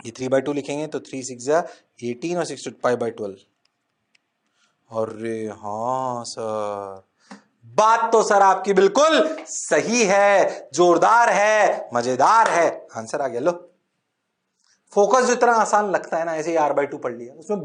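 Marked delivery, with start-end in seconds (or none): 5.0-12.9 lower, slow student chorus; mock student reply. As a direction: drag out the class's eager yes. Teacher voices students' reply. (छात्रों की नकल करते हुए)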